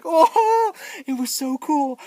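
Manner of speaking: high, loud whoop easing down; thrilled awe. Retold or imitated. Viewer seeing the fire breath, thrilled whoop. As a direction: gush like an amazed fan.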